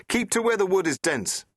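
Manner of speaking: high, loud called order; shouting. Acted. The Doctor to Rose in the wood, loud call. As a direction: call it back through the trees. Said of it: "shouted the doctor".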